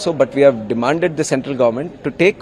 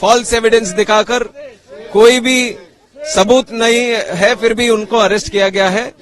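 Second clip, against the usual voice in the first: fast impassioned speech; 4 semitones higher, much faster than usual. Real, not acted. Politician speaks fast at protest.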